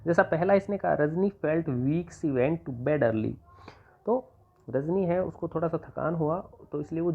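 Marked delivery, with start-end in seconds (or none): 0.9-3.3 very slow, word by word; slow, deliberate read of the example; slow dictation. Shown as a demonstration. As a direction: dictate each word for copying. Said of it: "जैसे मैं आपको ये करके दिखाता हूँ".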